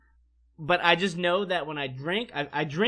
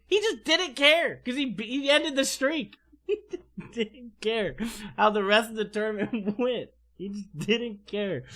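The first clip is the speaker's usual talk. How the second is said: amused laughing; 4 semitones higher than usual. Real, not acted. Amused recalling friend's delight.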